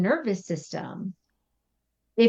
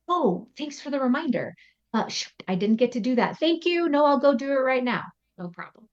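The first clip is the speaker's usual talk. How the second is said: relaxed thankful reply; 5 semitones higher than usual. Retold or imitated. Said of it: "connected nervous system state".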